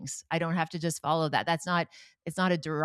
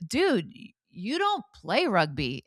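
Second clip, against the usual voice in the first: incredulous mom; 3 semitones higher, slower than usual. Retold or imitated. Mother retells her reply.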